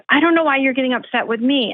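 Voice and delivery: quoted defensive complaint; retold husband's protest. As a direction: lightly imitate a puzzled, put-upon spouse. Retells husband objecting in quarrel.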